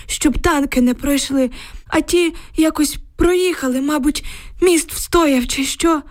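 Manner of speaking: put-on high, anxious old villager's voice; frightened old man. A narrator's reading. Old neighbour telling girls about the tanks, anxious. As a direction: tell it like a shaken old grandad.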